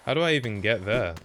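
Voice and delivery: ordinary delivery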